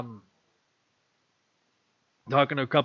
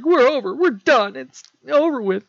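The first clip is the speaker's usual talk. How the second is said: higher, louder declaration; breaking up loudly; 11 semitones higher, 6 dB louder than usual. Acted. Mary Jane ending things with Peter, loud and final. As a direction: slam the door on the relationship. Breakup scene, she ends it.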